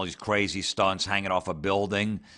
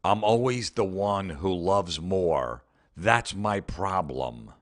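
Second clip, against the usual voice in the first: mock sappy post; slower than usual. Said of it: "the first one is".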